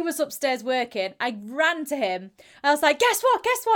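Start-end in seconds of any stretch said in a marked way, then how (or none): 3.0-3.7 high, louder, laughing guess what; excited. Retold or imitated. Running upstairs to tell her boyfriend, giddy and laughing. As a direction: burst in giddy with big news.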